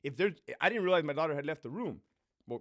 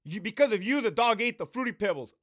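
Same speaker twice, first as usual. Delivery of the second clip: put-on accusing child; 3 semitones higher, 5 dB louder than usual. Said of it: "My daughter comes into the room and says".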